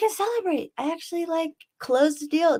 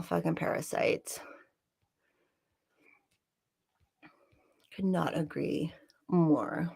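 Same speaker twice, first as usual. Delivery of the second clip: whispering; 6 semitones lower, 8 dB quieter, slower than usual. Real, not acted. Conspiratorial asides to chat.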